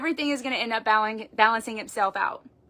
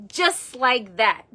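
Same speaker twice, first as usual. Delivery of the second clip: just like that drawn out very slowly; slow, deliberate just like that; slowed emphasis; much slower than usual. Shown as a demonstration. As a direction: stretch just like that for weight.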